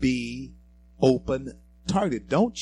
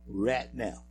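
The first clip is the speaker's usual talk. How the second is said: Louisiana pronunciation; 3 semitones lower, 3 dB quieter than usual. Shown as a demonstration. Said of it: "as they say in some parts of Louisiana".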